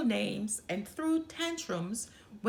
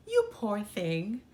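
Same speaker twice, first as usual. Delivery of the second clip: tender. Acted. Kind sister comforts frog.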